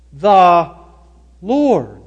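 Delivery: "the" set apart as "thee", then a pause; stress on THE. Shown as a demonstration. Preacher returning to David's words, stress on THE. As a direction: land on "the" alone, pause, then "Lord". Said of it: "Let's emphasize the".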